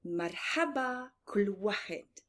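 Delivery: Marhaba kul wahed, said slowly with a rolled r and open a's; slow, careful Arabic: Marhaba kul wahed; Arabic greeting. Shown as a demonstration. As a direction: model the greeting slowly for the class. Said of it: "we say".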